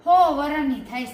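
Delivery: loud caught-out yelp; startled shout. Acted. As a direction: blurt it out in alarm.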